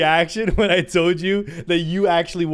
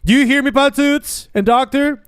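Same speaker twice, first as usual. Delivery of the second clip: much louder and higher call; 9 semitones higher, 9 dB louder than usual. Real, not acted. Streamer calls out to viewers Patoots and Doctor, loud. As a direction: shout it across the room.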